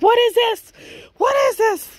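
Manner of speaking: imitating her stunned discovery; shocked retelling. Girlfriend discovers ankle monitor.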